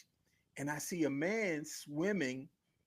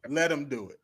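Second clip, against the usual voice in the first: daughter's advice; 3 semitones higher, 6 dB louder than usual. Retold or imitated. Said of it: "turns to me and said".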